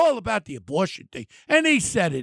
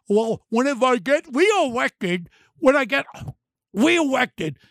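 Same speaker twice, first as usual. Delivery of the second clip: mock quote. Mocking Hochul's words.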